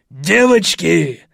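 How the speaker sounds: slow, loud drawn-out call; wild yell. A narrator's reading. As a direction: summon the girls. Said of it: "завопил безумный Фред".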